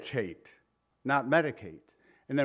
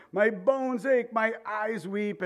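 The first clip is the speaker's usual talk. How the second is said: lament; 7 semitones higher, slower than usual. Acted. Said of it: "Jeremiah cried".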